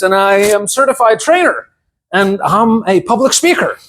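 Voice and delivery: brisk, polished self-introduction; professional intro. Shown as a demonstration. Job-interview style: introducing himself to company, brisk and polished. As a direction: rattle off credentials like a banker at a meeting. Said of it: "Be so professional introducing yourself".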